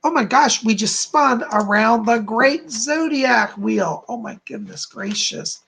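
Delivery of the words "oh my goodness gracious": awed whisper. Real, not acted. Awed aside after the wheel spin.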